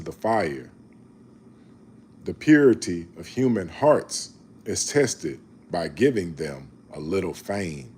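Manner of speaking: slow, measured Bible reading; scripture reading. Acted. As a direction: read each proverb slowly and solemnly.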